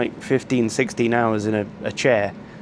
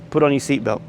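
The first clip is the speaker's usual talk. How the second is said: blunt, flat command with no please; curt order; 2 semitones higher than usual. Retold or imitated. Rude flight attendant telling a passenger, curt and blunt. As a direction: bark it out like a mild mock order. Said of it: "Here, this was just".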